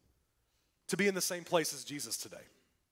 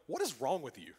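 Jesus rebuking; 6 semitones lower, 5 dB quieter than usual. Retold or imitated. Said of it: "That's what he's saying".

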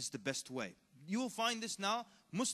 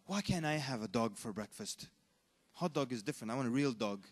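imagined self-questioning; 5 semitones lower than usual. Retold or imitated. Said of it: "ask yourself".

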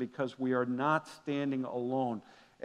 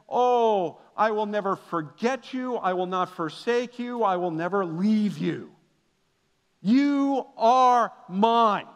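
tender God's voice; 4 semitones higher, 4 dB louder than usual. Acted. God voiced tenderly to people.

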